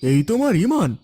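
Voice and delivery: fast, reproachful voice from a dream; scolding dream voice. Acted. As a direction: rebuke him quickly, like a voice of conscience.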